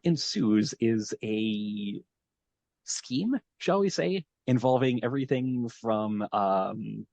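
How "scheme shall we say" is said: wry. Real, not acted. Wry word choice for the plan.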